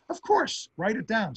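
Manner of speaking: a hint of a blunt old President waving it away; lightly voiced Harry Truman, dismissive; gruff Truman. Truman brushing off his aide.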